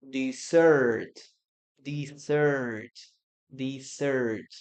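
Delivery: "Dessert" said de-SSERT, the second syllable stressed; teacher drilling "Dessert" with the weight on "sert"; stress on the last syllable. Shown as a demonstration. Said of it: "the stress goes at the last".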